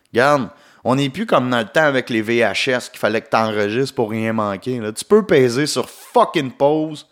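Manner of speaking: mildly exasperated retold rant, pitch jumping on key words; exasperated plea. Hungry customer to pizza guy glued to his video, exasperated. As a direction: act out a hungry customer losing patience. Acting out his complaint at pizzeria.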